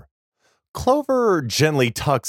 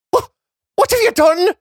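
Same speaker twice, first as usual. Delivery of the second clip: put-on high, shocked boy cry; horrified boy stammering; 5 dB louder, faster than usual. A narrator's reading.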